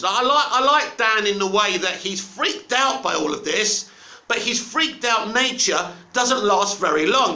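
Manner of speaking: throaty, needs to clear throat; frog in throat. Real, not acted. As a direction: speak through a phlegmy throat. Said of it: "let me clear my throat".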